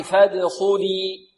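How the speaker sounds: "فادخلي" with bounced د and heavy, full خ; measured tajweed model of "فادخلي"; heavy kha demo. Shown as a demonstration. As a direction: lead students in "فادخلي", deepening the خ sound. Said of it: "والخاء مفخمة، انطقوا معي".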